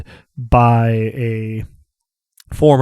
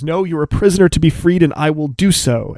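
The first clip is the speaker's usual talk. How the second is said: fast, pitched-up vow; fervent vow; 5 semitones higher than usual. Acted. Asha whirling on Romnet to vow her freedom, fast and fervent. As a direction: swear it at her, quick and fervent. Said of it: "He turns and whirls on you".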